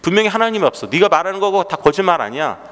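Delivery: mock interrogation of a believer; confrontational challenge. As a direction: imitate an accusing skeptic, pressing the point. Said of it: "이렇게 따집니다".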